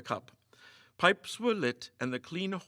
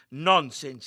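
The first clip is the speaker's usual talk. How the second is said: rough; 2 semitones higher, 8 dB louder than usual. A narrator's reading. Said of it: "he said roughly".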